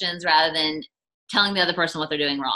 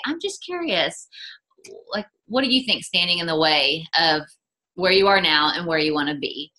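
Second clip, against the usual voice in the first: loving and kind. Acted. Asking a struggling builder kindly, lifted and unhurried. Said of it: "in a loving, kind way".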